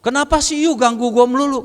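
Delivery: acted-out annoyance on the phone; retold angry voice. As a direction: imitate a friend fed up with being pestered. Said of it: "tapi nadanya marah".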